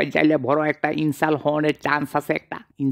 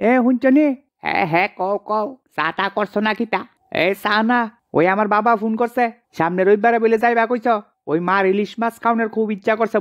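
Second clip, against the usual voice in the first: higher voiced wife, eager and chatty; higher pitched wife asking about the fish; wife's voice; 5 semitones higher than usual. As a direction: play the wife pressing her husband for hilsa.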